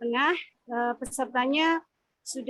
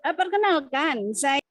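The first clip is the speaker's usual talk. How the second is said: connection dropping mid-word; audio cutting out; 3 dB louder than usual. Real, not acted. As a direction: voice breaks off over a bad line. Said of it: "Termute, Bu". (suara terputus-putus)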